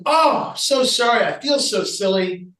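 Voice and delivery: backpedal, a bit flustered; embarrassed apology. Retold or imitated. Friar apologizes to the patient, slow and sheepish.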